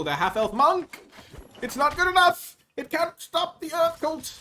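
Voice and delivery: very high, loud mock alarm; hammed-up shouting. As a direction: yell it out in a high, theatrical cry. Hammed-up reaction to game play.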